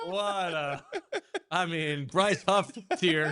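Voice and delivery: laughing in disbelief. Real, not acted. Co-host judges the awful accent, laughing. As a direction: barely get it out through laughter.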